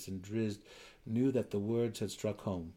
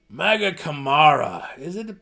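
louder, reluctant chuckle through the words; chuckling despite himself; 8 semitones higher, 12 dB louder than usual. Acted. Belwer answering Driz's jest, chuckling reluctantly. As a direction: laugh in spite of yourself. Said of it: "he chuckled in spite of himself".

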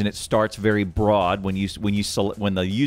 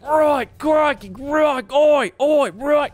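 very high, loud Aussie crikey voice; hammed-up Australian accent, pitched way up; over-the-top Australian accent, squeaky and loud; Steve Irwin impression; 6 dB louder, slower than usual. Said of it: "contrast that to maybe Steve Irwin".

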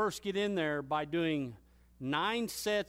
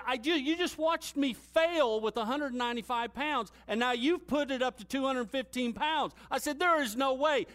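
raised, higher pleading objection; exasperated protest; 8 semitones higher than usual. Retold or imitated. Lifter protesting to trainer about added weight, rising exasperated protest. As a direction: argue back in disbelief, voice climbing.

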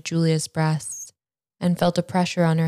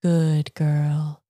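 cooing. A narrator's reading. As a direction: coo it like praise. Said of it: "Julia cooed again".

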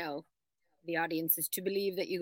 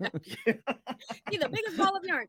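slow, laughing through the words; can't hold back the laugh; 9 semitones higher, much slower than usual. Real, not acted. Joking about the prize trip.

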